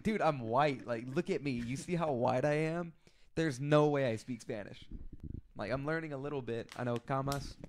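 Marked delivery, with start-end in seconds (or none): 0.0-4.9 louder, incredulous insistence; retold exasperated protest. Officer retells telling Spanish speakers he's white, exasperated. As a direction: protest as if it should be obvious.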